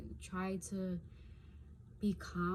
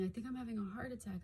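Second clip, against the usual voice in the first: mildly panicked, fast; 4 semitones higher, 3 dB quieter, faster than usual. Retold or imitated. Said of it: "I was saying".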